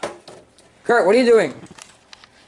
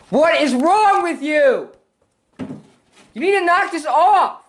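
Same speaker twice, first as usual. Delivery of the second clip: stern scolding; 6 semitones higher, slower than usual. Real, not acted. Mother scolding the sprayer.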